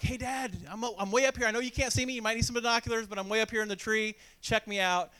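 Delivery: put-on boy boasting to dad from the tree, calling out. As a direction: shout it up proudly from a high branch.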